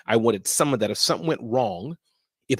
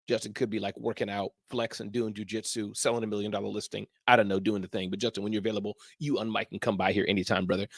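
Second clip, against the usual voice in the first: softer, lower murmur to himself; quiet aside; 5 semitones lower, 7 dB quieter than usual. Real, not acted. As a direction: drop into a private aside. Aside about absent guest.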